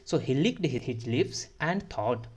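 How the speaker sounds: very slow, each word spaced; slow model reading. Shown as a demonstration. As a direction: read it out slowly to the class. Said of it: "teacher reads sentence aloud". (धीमी पढ़ाई)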